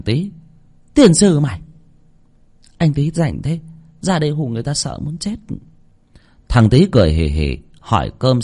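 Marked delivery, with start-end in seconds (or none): 0.9-5.4 annoyed outburst. A narrator's reading. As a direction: snap at the prankster who scared her. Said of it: "Bà Thoa bực mình". (bực mình quát lên rồi càu nhàu)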